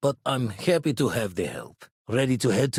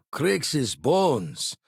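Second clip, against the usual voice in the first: exclaimed in surprise; sudden exclamation of amazement; startled oath; 3 semitones higher than usual. Acted. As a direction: blurt it out as a startled curse.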